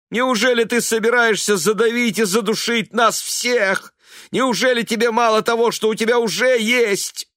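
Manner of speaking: отчаянный высокий громкий крик; кричи на мать из последних сил. A narrator's reading. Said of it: "Его голос поднялся до крика". (сын кричит на мать, громко и надрывно)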